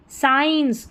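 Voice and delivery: साइंस opening on a plain s. Shown as a demonstration. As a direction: say साइंस with SC sounded as s. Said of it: "साइंस में स".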